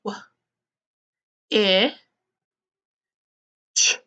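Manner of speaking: "wh-, I, ch" as separate sounds with long pauses between; sounding out. Shown as a demonstration. Teacher spelling "which" for pupils, sounding out each piece separately. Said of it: "What says ch?".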